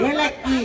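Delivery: ಏಲಕ್ಕಿ with no h and a doubled k; pronunciation correction. Shown as a demonstration. Director correcting the actress's word for cardamom, demonstrating. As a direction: model ಏಲಕ್ಕಿ as "ee-lak-ki". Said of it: "Oh, I'm so sorry".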